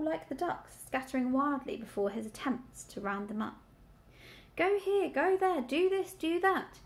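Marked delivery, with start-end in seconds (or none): 4.5-6.8 high, urgent piglet squeak; furious squeak. A narrator's reading. Dreaming piglet trying to round up sheep, furiously squeaking. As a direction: squeak out the orders in quick succession. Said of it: "he squeaked fur-, furiously at them".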